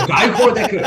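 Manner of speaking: "Daikodeku" as dye-koh-deh-koo; even syllables on "Daikodeku", DAI first; Japanese pronunciation. Shown as a demonstration. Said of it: "pronounced in Japan".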